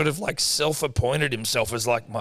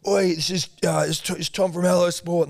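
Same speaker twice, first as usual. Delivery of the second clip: put-on bossy kid; 6 semitones higher, 3 dB louder than usual. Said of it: "goes up to the security guard and goes".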